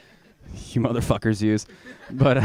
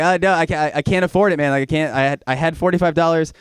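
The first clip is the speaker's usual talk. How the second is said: pleading protest; 5 semitones higher, 5 dB louder than usual. Acted. Pleading no money with driver.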